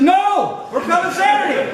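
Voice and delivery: high, loud retold protest, laughing; indignant Ruff. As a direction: mimic the friend shouting back in indignation. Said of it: "He says".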